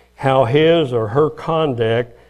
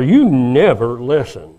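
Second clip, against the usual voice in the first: accusing complaint; 7 dB louder, slower than usual. Retold or imitated. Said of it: "accusations such as".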